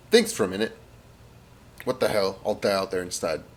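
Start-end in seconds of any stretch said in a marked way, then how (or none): 1.8-3.4 low-key, softer muse to himself; a thought voiced quietly to himself; inner thought. Jones to himself in the trench, quiet inner thought. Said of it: "he thinks to himself in English".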